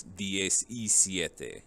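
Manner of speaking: slow "diez y siete" with a clear "y"; slow model number. Shown as a demonstration. Teacher spelling out minutes for the class, slowly. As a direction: say each part of the number apart. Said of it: "teacher models minutes".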